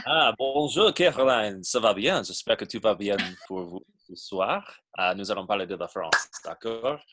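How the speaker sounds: French spoken with a heavy American accent; Utah cowboy French accent. Real, not acted. Greeting Caroline and the team in French, Utah cowboy French accent. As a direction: speak the French lines with a broad Utah twang. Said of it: "It's like a Utah cowboy French accent".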